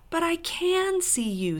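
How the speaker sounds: high, drawn-out protest; insistent. A narrator's reading. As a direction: insist slowly in a lifted voice. Lucy insists to dwarf.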